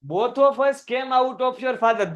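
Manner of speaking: very slow, drawn-out textbook read; slow theatrical reading of a story line; slow dramatic reading. Shown as a demonstration. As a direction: read it out slowly, savouring each word. Teacher reads textbook line dramatically.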